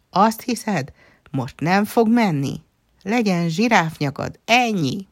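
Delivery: high-pitched defiant challenge; defiant retort. A narrator's reading. Lia casts back at Nana despite it all, defiant.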